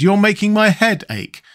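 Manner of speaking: high-voiced complaint, HEAD ACHE as the grievance; complaining Pumpkinhead. A narrator's reading. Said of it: "cried the Pumpkinhead".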